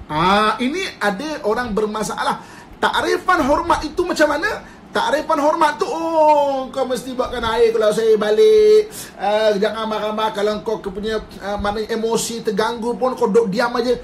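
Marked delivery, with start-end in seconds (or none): 5.9-13.9 louder, a lightly voiced demanding husband; bossy husband. Husband lays down house rules to his wife, mildly bossy. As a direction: hand down orders like a mock tyrant.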